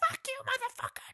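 mock whispered, angry and breathy. Retelling a fight they watched, the speaker quotes the woman, imitating an angry woman. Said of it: "like she's fucking angry".

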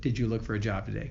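put-on somber tone. Retelling what she asked when he walked in that day, retelling a very somber question. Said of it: "in a very somber voice".

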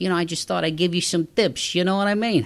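loud, high, put-on New York accent. A podcast host offers listeners winter tips, in a put-on new york accent. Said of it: "I don't know why I'm doing that voice".

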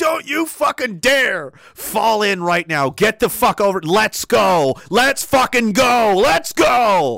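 very slow, drawn-out, yelled screaming. Retelling how the other guys screamed at him not to quit: imitating others screaming. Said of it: "lost their shit and started screaming".

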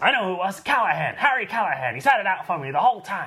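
put-on voice pushed high and loud. Doing an impression of the Scorpio Killer actor when asked. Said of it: "my Andy Robinson impression".

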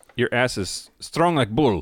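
fake Russian accent. Joking with a co-host, in a mock Russian accent.

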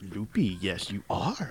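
tiny, sage-like little alien master voice. Praised by a co-host for a good Yoda voice, doing it again: Yoda voice. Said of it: "You have the good Yoda voice".

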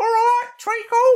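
shrill, very loud, belted high voice. Recalling a woman at a meal who sounded like Terry Jones: Terry Jones voice. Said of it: "You could make a really good living in doing Terry Jones impressions".

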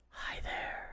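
faint, very quiet whispered ghost voice. Describing a game ghost speaking in your ear: imitating a ghost whispering. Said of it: "just the ghost whispering".

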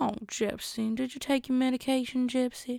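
soft, put-on rural country woman's voice. Imitating a woman talking to Gypsy, in a country woman voice. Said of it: "like a mix of some country woman".

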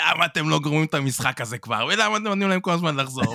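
put-on high, worked-up, fed-up ranting. Imagining a rival Real Madrid fan cursing at the TV: imitating a fan shouting angrily. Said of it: "וצועק ומתעצבן".

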